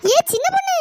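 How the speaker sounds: high, loud spooky call; eerie ghost call. Acted. The ghost calls the little girl again, high and eerie. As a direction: call out like a ghost hunting them. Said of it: "திரும்பவும் கூப்பிடுதுடி".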